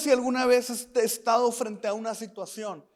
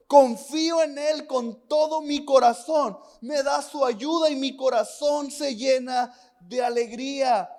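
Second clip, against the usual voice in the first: fervent scripture reading. Acted. Reads psalm with fervour.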